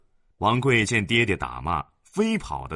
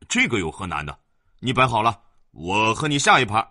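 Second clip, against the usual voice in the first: put-on cocky boy; 5 dB louder than usual. Boy challenges servant.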